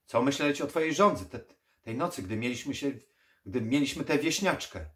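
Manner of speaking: fast, loud, high, stumbling question; agitated challenge. Acted. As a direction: fire it back, tripping over words. Agitated challenge, repeated slowly by vampire.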